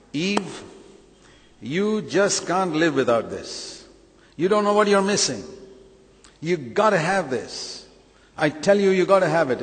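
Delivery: the devil in Eden, luring Eve with a sales pitch; coaxing devil. Acted. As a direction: sell it like a sly tempter.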